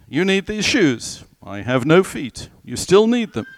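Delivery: hammed-up salesman voice; pushy salesman. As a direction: lean in like a trickster closing a sale. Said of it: "People who have all the right answers are salesmen, tricksters".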